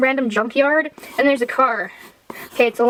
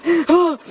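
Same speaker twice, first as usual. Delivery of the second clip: high put-on gasp; hammed-up gasp of delight; mock excited gasp; 6 semitones higher than usual. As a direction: gasp as if imitating someone thrilled. Filmmaker thrilled at footage.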